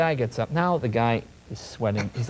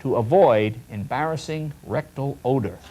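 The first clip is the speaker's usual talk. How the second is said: mock product blurb; slower than usual. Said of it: "this is how it's described".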